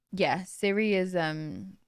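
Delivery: ordinary talk, nothing marked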